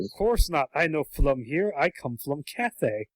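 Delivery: lightly done mock Chinese accent; Lindfarn Worm. Dragon telling Jack his origins, light mock Chinese accent. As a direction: pidgin Chinese accent, r turned to l. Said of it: "he keeps going on and on like this".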